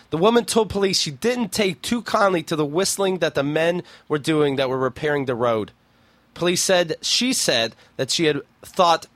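lightly measured article-reading voice; news story read-aloud. Acted. Host reading an odd news story to co-host, news read-aloud.

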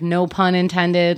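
drawn-out, slow line; slow no pun intended. Retold or imitated. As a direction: stretch each word out slowly. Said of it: "and I said, you know, like".

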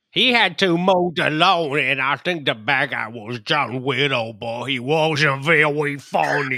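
lightly put-on recap voice; recap character voice. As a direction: give the recap in a mildly put-on voice. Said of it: "listen to Heath's recap in that voice".

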